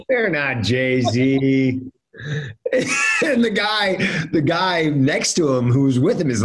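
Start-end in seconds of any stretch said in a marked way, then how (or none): 0.1-1.8 very slow, stretched flat denial; drawn-out disbelief. Retold or imitated. Bouncer refusing a rapper at the rope, slow stubborn disbelief. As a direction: drag every word out, unconvinced. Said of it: "I go".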